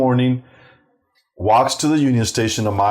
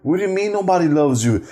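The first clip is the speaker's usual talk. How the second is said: acted-out soothing of a crying child; retold heartfelt reassurance; 8 semitones higher than usual. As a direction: plead tenderly, pitched up, as a remorseful parent. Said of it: "I felt so bad".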